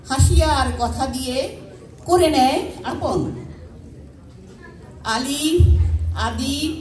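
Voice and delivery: measured recital in short phrases with pauses; simple spoken verse, pausing between phrases; poem recitation. Acted. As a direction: recite your own poem to a gathering, phrase by phrase. Recites own poem to audience.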